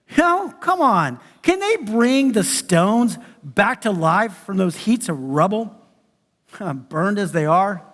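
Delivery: slow, deliberate Bible reading; scripture reading. Acted. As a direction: read the passage slowly to the congregation. Reads scripture passage aloud.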